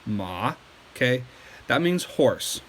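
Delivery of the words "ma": Ma dropped lower and deeper; low dipping Mandarin tone on Ma; third tone ma. Shown as a demonstration. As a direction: drop Ma down further. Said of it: "like that".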